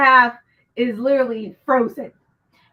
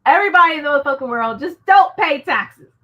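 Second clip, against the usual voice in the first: mock rally call; 7 dB louder than usual. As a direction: rouse the whole world like a ringleader. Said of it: "sometimes I'm like".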